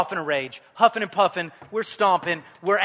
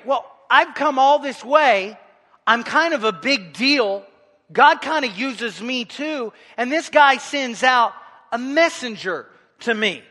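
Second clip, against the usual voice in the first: indignant Naaman; 3 semitones higher, 3 dB louder than usual. Retold or imitated. Angry Naaman voiced.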